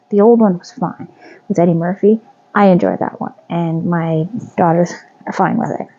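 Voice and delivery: talking with something between the lips; stitch marker in mouth. Real, not acted. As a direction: mouth partly blocked while chatting. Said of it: "Gotta stop putting that in my mouth".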